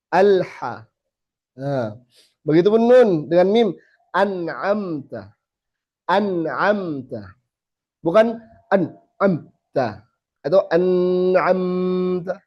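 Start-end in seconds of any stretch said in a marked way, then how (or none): 4.1-7.4 an'amta with nun and mim held moderately, slowly; slow, nasal held just enough; medium nun. Shown as a demonstration. Teacher modelling recitation, slowly. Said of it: "Dia pertengahan". 8.0-12.4 an'amta with nasals cut or overdrawn, slowly; wrong an'amta. Shown as a demonstration. Teacher contrasting wrong ways, slowly.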